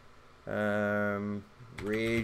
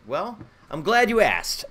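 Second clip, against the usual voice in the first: mock showman; 6 semitones higher, 5 dB louder than usual. Mock announcer aside to viewers.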